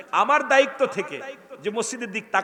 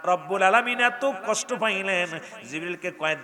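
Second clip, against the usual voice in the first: ordinary delivery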